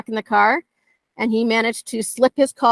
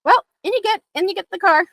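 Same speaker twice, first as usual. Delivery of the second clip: much higher, sing-song coaxing; sweet coaxing; 10 semitones higher than usual. Retold or imitated. Trainer coaxing an escaped dog into the car, high sing-song. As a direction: coo it like luring a dog into a car. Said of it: "was like".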